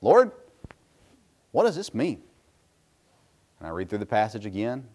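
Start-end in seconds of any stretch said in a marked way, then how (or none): 0.0-2.2 retold prayer. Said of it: "I prayed again".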